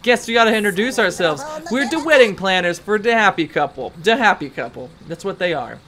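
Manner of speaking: lightly faked mafia henchman accent; half-hearted try at an Italian mobster; attempted Italian mafia accent. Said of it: "like the Italian mafia kind of accent".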